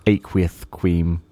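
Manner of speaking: slow, aqueous said as aqueouth; lisp. Shown as a demonstration. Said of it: "it's just good with a lisp".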